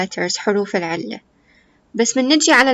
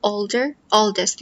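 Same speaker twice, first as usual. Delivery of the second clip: slow model words; much slower than usual. Shown as a demonstration. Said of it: "Old نفس الشيء".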